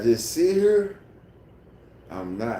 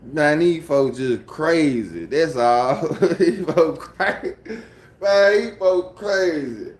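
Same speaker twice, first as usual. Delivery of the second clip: exasperated; 4 semitones higher, 4 dB louder than usual. Real, not acted. Laughing dismissal of audience.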